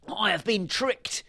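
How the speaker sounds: high, slow cry; outraged shout. A narrator's reading. Baron finds leaves instead of gold, high slow shout. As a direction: cry out high, drawing out the words. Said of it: "he shouted".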